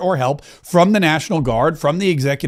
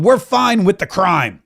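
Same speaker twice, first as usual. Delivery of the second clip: mock smug leaders; slower than usual. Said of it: "They're gonna say".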